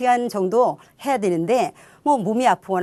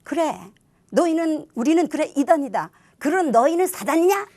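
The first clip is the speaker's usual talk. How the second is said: high-pitched mocking retort; laughing taunt; 7 semitones higher than usual. Witnesses among themselves about their accusers, laughing taunt. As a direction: toss it back high and teasing. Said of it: "요렇게 웃으면서".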